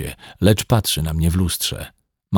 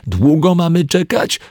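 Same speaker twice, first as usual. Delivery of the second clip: louder, higher shout from outside; impatient call through door; 10 semitones higher, 5 dB louder than usual. Acted. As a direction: yell through the door, fed up. (zniecierpliwiony krzyk zza drzwi)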